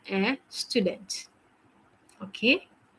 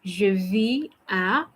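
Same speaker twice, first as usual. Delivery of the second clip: Je vis à again, slow and even; slow repeat; slower than usual. Shown as a demonstration. Teacher repeating the phrase for students, slowly. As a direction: repeat slowly so they catch it. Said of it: "ça va?".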